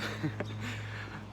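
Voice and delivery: soft, voiceless little laugh; real amused chuckle; light chuckle. Real, not acted. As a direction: chuckle quietly at the idea. Amused at idea of retracing trip.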